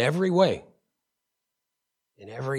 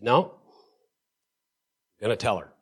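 slow defiant reply; 3 semitones lower, much slower than usual. Retold or imitated. Defying brother, slow.

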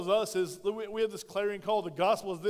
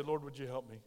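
lower, much softer plea to God; humble prayer; 6 semitones lower, 7 dB quieter than usual. Acted. Sinner asks the Lord for forgiveness, soft and humble. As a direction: pray it small and humble. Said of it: "stick your hand out and say".

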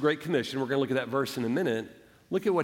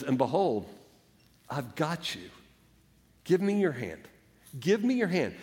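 gentle reassurance. Acted. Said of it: "so gently says".

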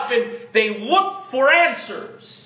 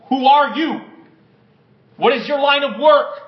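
loud demand; 4 semitones higher, 4 dB louder than usual. Acted. Sailors interrogate Jonah in storm.

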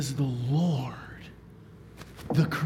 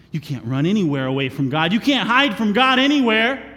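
building to a louder, higher peak; rising emphasis; 4 semitones higher, 5 dB louder than usual. Real, not acted. Preacher warns the congregation, building louder. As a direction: drive the warning home.

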